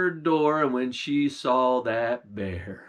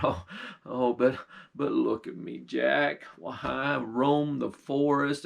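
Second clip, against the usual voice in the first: a humbled bear grateful for food, a little lower; old bear voice; 3 semitones lower than usual. Acted.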